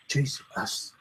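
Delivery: light whispered "Jesus" with a lift at the end; soft mock ghost whisper; whispered imitation. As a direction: whisper it the way the recorder caught it.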